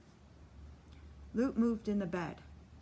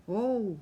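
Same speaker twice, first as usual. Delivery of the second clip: crowd gasp; 2 semitones higher, 6 dB louder than usual. A narrator's reading. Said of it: "There is a prolonged gasp from the house".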